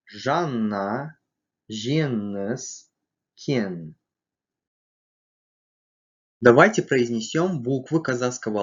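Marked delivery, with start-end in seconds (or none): 0.1-3.9 "Жанна, жеңіс, кен" with ng for the н; each word apart, ng in "Жанна", "жеңіс", "кен"; velar ng. Shown as a demonstration. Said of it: "В результате получится звук". (заднеязычное ng в «Жанна, жеңіс, кен»)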